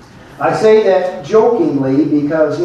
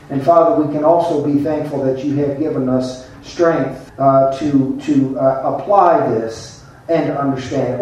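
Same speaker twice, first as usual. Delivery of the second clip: pastoral prayer. Acted. Pastor praying over his congregation before the message, earnest and steady. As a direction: pray over the church, sincere and unhurried.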